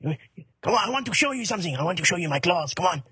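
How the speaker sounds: put-on coaxing, comic French accent; wheedling French-accented tiger. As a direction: lure them closer in a mock-French accent. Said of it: "A French tiger".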